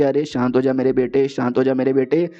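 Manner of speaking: low, fatherly calming down; mildly acted consoling tone; soothing. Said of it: "Minister of War समझाते कि".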